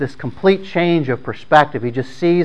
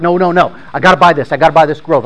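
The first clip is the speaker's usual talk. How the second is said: insistent refusal; 2 semitones higher, 4 dB louder, faster than usual. Retold or imitated. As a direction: push back hard, he must buy the grove. Master insists on pressing on.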